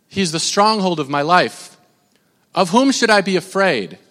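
a reverent reading of the psalm; scripture reading. Acted. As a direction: read the passage with calm reverence. Reads the psalm passage.

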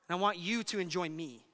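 plea settling back to an easy pitch; pleading father. Acted. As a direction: land the father's entreaty gently. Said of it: "he pleads with him".

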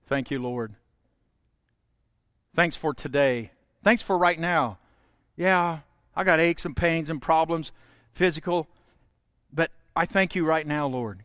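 a hushed, sincere prayer. Shown as a demonstration. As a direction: pray it gently as an example. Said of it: "you can give thanks".

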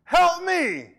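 very high, loud, shouting plea for help; a hammed-up victim screaming at the cop; panicked plea. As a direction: yell it while fleeing robbers. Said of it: "you're like".

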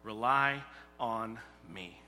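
slow, gentle "Rely on me"; slow, tender voice of God. Acted. Preacher voicing God's gentle call to Israel, slow and tender. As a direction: say it slowly like a loving promise. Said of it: "is what he's teaching them".

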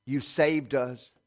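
measured prayer with long pauses; closing prayer. Real, not acted. Preacher thanking God for saving us, measured prayer. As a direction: pray gently, pausing between phrases.

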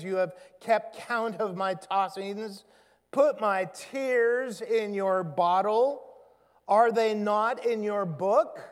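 steady, earnest reading of a lament; scripture reading. Acted. Pastor reading the psalmist's lament to the congregation, earnest. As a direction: read the psalm out with weight.

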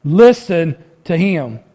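slow, weighty listen to him; slow commanding quote. Acted. Preacher voicing God's command, slow and weighty. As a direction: hand down God's command slowly. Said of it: "What does he say?".

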